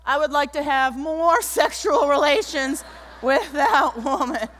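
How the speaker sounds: slow mock Clinton denial, a touch of laughter; lightly voiced Clinton; imitating Bill Clinton. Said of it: "It was as if Bill said".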